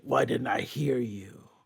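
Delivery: low, slow whisper; whispered Wolverine. Retold or imitated. Podcaster voicing Wolverine questioning Sarah, slow whisper. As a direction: breathe it as a suspicious whisper. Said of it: "he's like".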